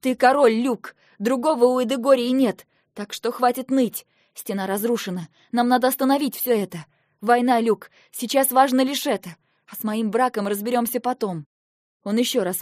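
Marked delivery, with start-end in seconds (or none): 0.0-11.4 loud commanding rebuke; forceful scolding. Acted. Sister rousing her brother to duty, loud and firm. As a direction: shake him out of it.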